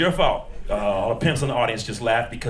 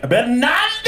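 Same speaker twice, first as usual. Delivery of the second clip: mock Latin flourish; 13 semitones higher, 4 dB louder, slower than usual. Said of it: "she was like".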